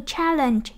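"challenge" stressed on the first syllable, CHAL. Shown as a demonstration. Teacher modelling a noun for students, stress on first syllable of "challenge". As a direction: put the weight on CHAL in "challenge". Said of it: "danh từ nhấn âm một".

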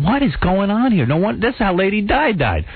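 mock alarm at being blinded. Blinded by paparazzi flashes, telling the host, mild alarm.

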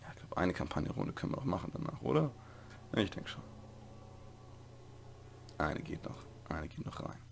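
soft late-night whisper. Real, not acted. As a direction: keep it hushed, near silent. Late-night quiet commentary.

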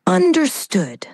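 breathy whispered aside. Acted. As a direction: whisper it conspiratorially. AI whispers before dramatic take.

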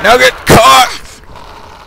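high, loud, drawn-out yell; slow, hammed-up attack yell; taunting battle cry. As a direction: stretch it into a gloating shout. Taunts zombie while attacking.

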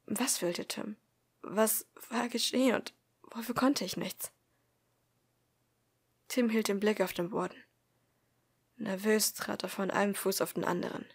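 measured first-person audiobook narration; story narration. A narrator's reading. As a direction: read the story aloud, calmly paced. Reads story aloud.

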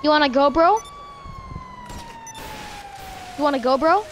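mock tough-guy challenge; fake tough guy swagger. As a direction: puff up like a street tough. Playful fight challenge in game.

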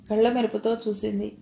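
usual speaking voice

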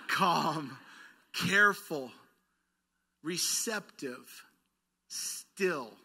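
Calm read slowly with long pauses between words; slow, honoring read. Shown as a demonstration. Pastor slowly reading the slow words to his congregation, calm. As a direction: let each word land, unhurried. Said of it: "I'm gonna read these slow 'cause I feel like I need to honor this".

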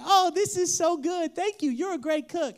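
hammed-up praise. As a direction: ham it up for the little chef. Dad praising pretend food.

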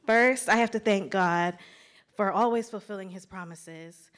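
loud, emphatic praise; fervent thanks. Real, not acted. Thanking God in front of her classmates, loud and fervent. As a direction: proclaim it with full conviction.

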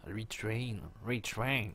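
"retrain" said the English way, with an English accent. Shown as a demonstration. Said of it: "avec l'accent anglais".

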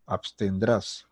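slow, drawn-out syllables; slow model form. Shown as a demonstration. Teacher giving students the correct verb form, slow. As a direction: say it slowly for learners to copy.

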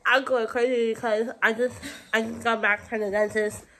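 talking with a numb mouth; slurred from dental numbing. Real, not acted. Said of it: "Mouth is numb".

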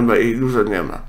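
ordinary talk, nothing marked

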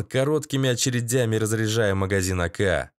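plain reading voice

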